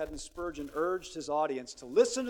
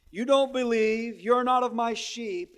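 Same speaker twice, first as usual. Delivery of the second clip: stern rebuke; 4 semitones higher, 7 dB louder, slower than usual. Retold or imitated. Jesus rebuking his hearers.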